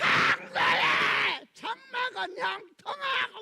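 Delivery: loud, high, acted-out outburst of bitter resentment. Explaining Job chapter 12 verse 6, acting out bitter resentment. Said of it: "막 울분이 막 ... 막 이렇게 하는 거예요".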